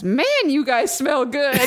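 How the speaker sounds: drawn-out, emphatic mock exclamation; enthusiastic quote. Girl at the window to customers, mock enthusiastic. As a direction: imitate someone exclaiming slowly with gusto.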